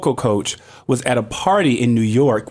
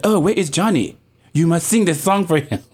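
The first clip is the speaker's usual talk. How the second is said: imitated French accent, a little higher; 4 semitones higher than usual. French actress urging singer to perform for Johnny, French accent. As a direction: put on a light French accent. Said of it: "In her beautiful French accent".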